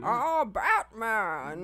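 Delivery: slow, menacing villain growl; mock Bane impression. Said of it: "She'll start doing Bane".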